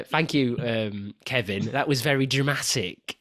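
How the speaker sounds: talking through clenched teeth; jaw wired shut. Retold or imitated. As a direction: keep the jaw locked tight. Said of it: "Yeah, that one".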